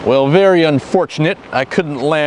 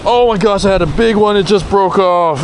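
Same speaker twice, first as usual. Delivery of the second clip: excited; 5 semitones higher than usual. Real, not acted. Big fish just broke off.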